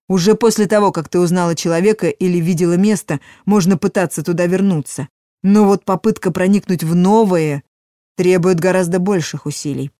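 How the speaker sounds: громкий, наставительный голос старого мага; объясняй как мудрый верховный маг; голос верховного мага. Acted. (верховный маг, наставительно)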